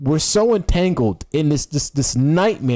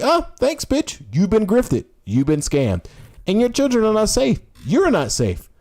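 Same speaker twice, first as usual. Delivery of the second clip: smug sarcastic exposé; 6 semitones higher than usual. Retold or imitated. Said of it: "they look at you like".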